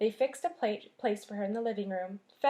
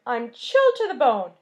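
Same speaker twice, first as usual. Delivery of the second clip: put-on chilled boy; 10 dB louder than usual. Chilled mouse complains.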